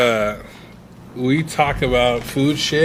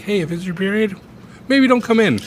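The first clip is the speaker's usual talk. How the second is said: mock reasonable boss; 8 semitones higher than usual. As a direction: play the sensible manager. Imitating a reasonable manager.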